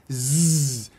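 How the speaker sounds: imitated buzz of an electric spark; buzzing spark sound. Shown as a demonstration. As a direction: make the zap of a spark. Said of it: "the man sparks".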